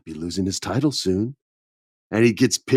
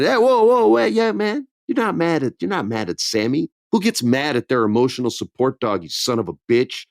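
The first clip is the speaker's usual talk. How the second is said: a hint of a brash heel butting in; mock Kevin Owens; 3 semitones higher than usual. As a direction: Kevin Owens mocking Roman, lightly voiced.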